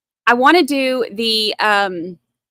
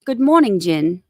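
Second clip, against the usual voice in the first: playful British greeting; British accent, pitch falling at the end; mock British accent; 3 semitones lower than usual. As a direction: put on a light British accent to greet someone. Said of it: "I gotta get in my Brit character".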